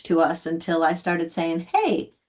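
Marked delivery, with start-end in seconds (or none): 1.7-2.1 high-pitched retold question; tentative high-voiced query; curious questioning. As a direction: ask lightly, pitched well up.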